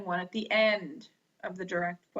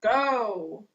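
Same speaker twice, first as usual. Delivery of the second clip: command. Shown as a demonstration.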